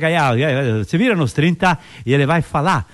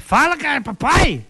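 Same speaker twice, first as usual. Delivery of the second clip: pleading with the dog; 9 semitones higher, slower than usual. Acted. Owner pleading on stage.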